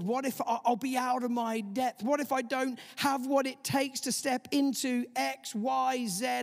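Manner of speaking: rising anxious questions; anxious what-ifs. Retold or imitated. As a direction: voice of worry. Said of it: "It's the voice of what ifs".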